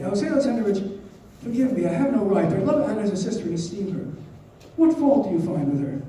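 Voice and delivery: mildly urgent appeal; earnest plea. Acted. Dolly pleading with Karenin in novel.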